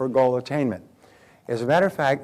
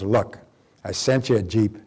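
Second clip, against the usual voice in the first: a weary God listing what he already sent, swelling louder; 7 dB louder than usual. Acted. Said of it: "The great voice of God comes down".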